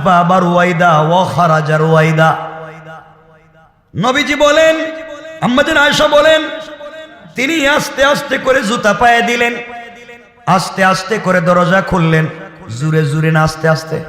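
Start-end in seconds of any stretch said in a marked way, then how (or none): 3.9-12.3 high, ringing sermon cry; full-force preaching. Acted. High-pitched preaching run. (উঁচু গলায় জোরালো ওয়াজ)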